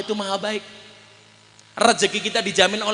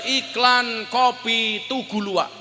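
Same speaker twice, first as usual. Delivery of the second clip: slow drawn-out ad read; mock commercial announcer; slower than usual. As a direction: announce it like a coffee ad. Mimicking an ad announcer.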